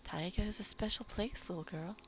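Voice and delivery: hushed grandma voice sinking to a whisper; lightly voiced gentle old lady; soft old lady voice. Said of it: "in her soft, smooth voice".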